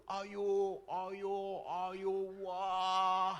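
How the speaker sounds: a hint of eager church greeters calling ayo; cheerfully beckoning, lightly acted; lightly voiced welcome. Priest voicing greeters welcoming a newcomer, lightly cheerful.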